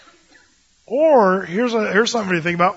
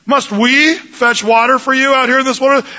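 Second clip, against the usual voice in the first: raised, scolding voice; angry rebuke; 4 semitones higher, 4 dB louder than usual. Retold or imitated. Moses rebuking the complaining people, angry. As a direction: scold them hard. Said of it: "Moses says".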